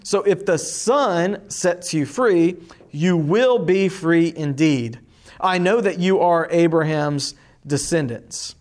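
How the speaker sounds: steady, measured Bible reading to a class; teacher reading the Gospel aloud to the class; scripture reading. Acted. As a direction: read the passage clearly for students to follow. Teacher reads scripture passage aloud.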